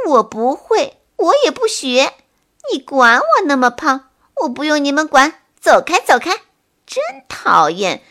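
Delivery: cranky shout to be left alone; annoyed. Acted. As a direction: shoo them off, grumpy and loud. Woken bird shoos friends away.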